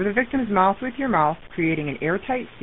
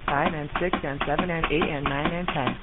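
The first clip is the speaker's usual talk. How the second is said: counting cpr compressions; 5 dB quieter than usual. Shown as a demonstration. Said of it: "one hundred compressions".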